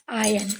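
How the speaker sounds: आयन said with no r sound, like "aa-yan"; silent r in iron. Shown as a demonstration. Teacher showing pupils the right way: आयन without r. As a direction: drop the r: आयन. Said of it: "आर इसमें चुप रहता है".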